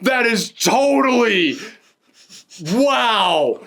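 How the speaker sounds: high, laughing disbelief; genuine surprise. Real, not acted. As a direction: crack up as the coincidence dawns on you. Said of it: "this is genuine reaction right here".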